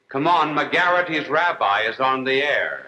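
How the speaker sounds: little girl's announcement, lightly voiced, drawn out; storyteller's slow, understated imitation of a child's announcement; little girl announcing. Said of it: "the little Jewish girl announced it, saying".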